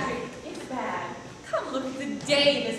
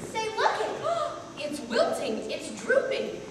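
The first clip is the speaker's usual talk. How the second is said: higher, breathless gleeful whisper; excited high whisper; 9 semitones higher than usual. Acted. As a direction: gasp with giggly glee. Delight as daisy wilts.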